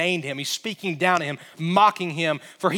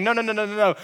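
boastful cursing giant; 3 dB louder than usual. Retold or imitated. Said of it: "Goliath is saying".

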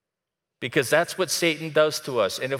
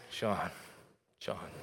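soft, tender call, lower and much softer; with affection; 5 semitones lower, 12 dB quieter than usual. Retold or imitated. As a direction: say the name gently, with compassion. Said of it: "With affection and compassion".

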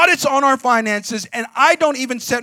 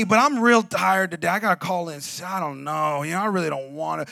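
lazy mumbled excuse; 3 semitones lower, 3 dB quieter than usual. Retold or imitated. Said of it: "we're like".

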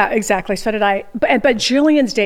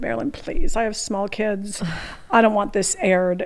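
quiet pleading; 3 semitones lower, 6 dB quieter than usual. Retold or imitated. Begs producer not to air.

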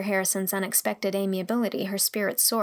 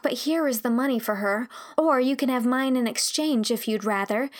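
lightly voiced girl, mournful and pleading; a hint of a higher, apologetic girl's voice; contrite young girl; 4 semitones higher than usual. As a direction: beg forgiveness as an earnest girl.

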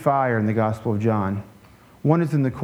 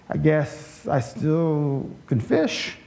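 amused chuckle; much slower than usual. Retold or imitated. Peter's response, retold with amusement.

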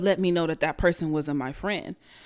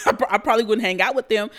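laughing through the repeat, louder and quick; amused, laughing restatement; 4 dB louder, faster than usual. Real, not acted. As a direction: chuckle the line out again. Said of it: "laughs while repeating".

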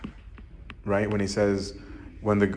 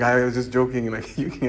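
laughing it off, a bit louder; 3 semitones higher, 3 dB louder than usual. Retold or imitated. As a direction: laugh through the backpedal to brother. Backpedalling with brother in store.

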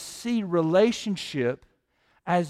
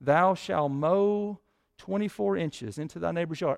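mock scripture. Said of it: "the Bible does not give us".

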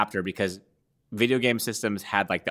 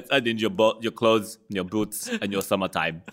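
put-on horrible Arnold accent. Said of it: "that's a horrible Arnold accent".

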